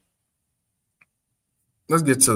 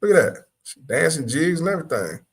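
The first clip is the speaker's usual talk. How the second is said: excited; 6 semitones higher than usual. Real, not acted. Excited reacting to clip.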